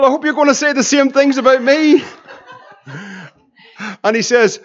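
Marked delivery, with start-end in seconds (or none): 0.0-2.0 laughing. Retold or imitated. Jokes through laughter on phone.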